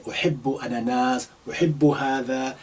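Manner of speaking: quick, lightly voiced example phrases; modelling a learner talking about fruit; sample phrases. Shown as a demonstration. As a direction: rattle off likes and dislikes fast. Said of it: "you can talk around and say".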